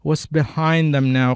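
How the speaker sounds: slow copy of "Was behind them now"; imitating the audio. Shown as a demonstration. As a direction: echo "Was behind them now" slowly after the recording. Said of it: "Kalian bisa ngikutin gitu". ("Was behind them now" pelan, menirukan audio)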